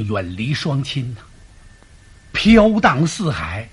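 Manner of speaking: milk the feigned sorrow for the wife; hammed-up weepy homesick sigh; fake tearful lament. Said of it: "他想哭就哭".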